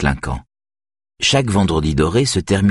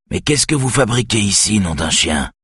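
a touch of rasp, gruff surprise; voix rauque et surprise; hoarse voice; 4 semitones higher than usual. Acted. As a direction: growl it out, startled homeowner. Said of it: "d'une voix rauque".

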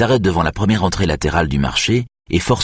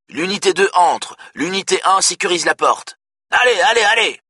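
much higher, rising to a frantic allez; urgent commands; 11 semitones higher than usual. A narrator's reading. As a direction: drive the team in, frantic. Police radio orders in assault.

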